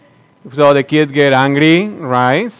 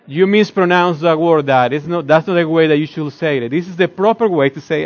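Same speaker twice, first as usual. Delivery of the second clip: correcting son; 2 semitones higher than usual. Retold or imitated. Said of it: "he does it in a perfect English".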